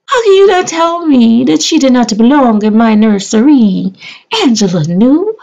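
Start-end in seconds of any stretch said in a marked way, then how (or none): 0.1-3.9 high, sassy mock-indignant voice; sassy diva challenge. To doubting viewers: high, sassy and indignant. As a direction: dare them to say she isn't cute.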